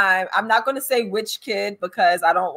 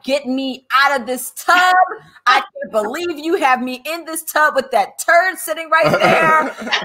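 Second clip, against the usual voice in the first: put-on indignant kid's complaint, rising higher; mock-outraged child protesting; imitated disgust; 5 semitones higher than usual. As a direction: act out a disgusted kid, building to a high finish. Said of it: "was so disgusted".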